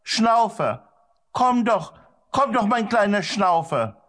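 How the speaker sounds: high-pitched, increasingly anxious calls; worried calling. A narrator's reading. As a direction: call the runaway dog back, pleading. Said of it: "rief immer wieder, immer lauter und immer besorgter".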